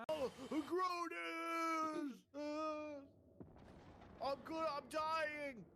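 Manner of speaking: dramatic wail. Acted.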